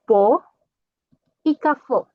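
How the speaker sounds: pó and cafó with a wide open ó; open O demo. Shown as a demonstration. Teacher modeling the open O for students, stressed. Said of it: "vai ser o som aberta".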